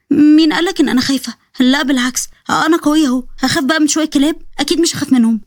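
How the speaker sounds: put-on lightly lifted, plucky young woman; a touch of bravado; defiant denial. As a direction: protest that you are not scared. Girl denies being afraid.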